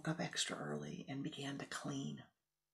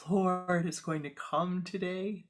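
excited; 3 semitones higher, 6 dB louder than usual. Acted. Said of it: "she says very excitedly".

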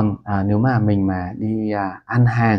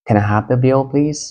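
polite request; 4 semitones higher, 4 dB louder than usual. Shown as a demonstration. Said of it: "một cách gọi rất là lịch sự".

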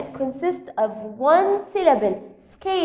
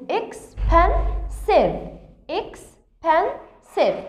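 slow modelling; 3 semitones higher, much slower than usual. Shown as a demonstration. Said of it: "teacher models word pronunciation".

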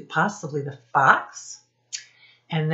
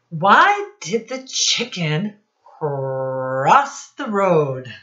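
slow, drawn-out riddle voice; milk the joke, slow and teasing; joke setup; 4 dB louder, much slower than usual. Shown as a demonstration. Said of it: "I have a joke for you".

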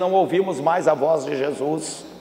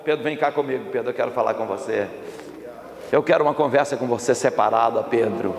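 low, softened invitation; gentle, private address; 5 semitones lower than usual. Acted. Jesus asks Peter for a private talk, gentle. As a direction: draw him aside gently.

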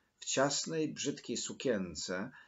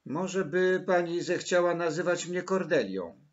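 high, louder, eager request; hurried; 7 semitones higher, 6 dB louder than usual. A narrator's reading. Girl asks Maryla to call her Kordelia, hurried eagerness. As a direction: blurt the request hopefully, in a child's higher voice. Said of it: "rzekła pospiesznie".

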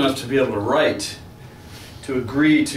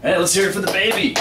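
dry mock cheer; sardonic, fake enthusiasm; sarcastic; 6 semitones higher, faster than usual. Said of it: "sardonic, sarcastic tone".

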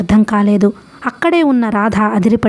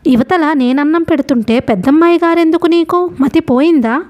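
higher, sharp scolding; angry scolding; 6 semitones higher than usual. A narrator's reading. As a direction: snap at the farmhand to stop asking. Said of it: "Shakuntala కోపంగా / కసిరింది".

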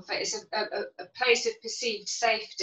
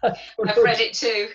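laughing; 4 dB louder, slower than usual. Real, not acted. Laughs about the swear-word book.

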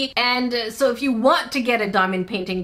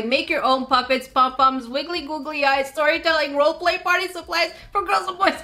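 all in one breath; 3 semitones higher than usual. Shown as a demonstration. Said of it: "I was trying to do it in one breath".

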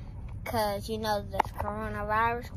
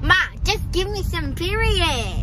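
higher, put-on ratchet demand; ratchet talk; 4 semitones higher than usual. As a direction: demand it from Ma in mock-ghetto talk. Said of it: "Stop talking like that".

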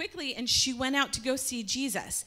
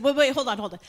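louder hurried objection, hands-up stop; urgent protest; 2 semitones higher, 7 dB louder, faster than usual. Acted. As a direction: stop him before he does it. Martha stopping Jesus.

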